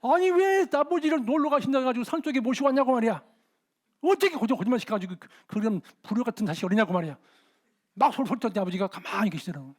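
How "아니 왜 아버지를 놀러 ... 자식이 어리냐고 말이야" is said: scolding. Retold or imitated. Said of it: "아버지가 놀래가지고".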